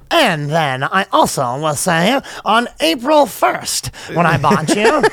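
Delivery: slow, drawn-out mock presentation; plaintiff testifying. Spurned man presenting his case in court, slow and ponderous. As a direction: lay out each point with laboured importance.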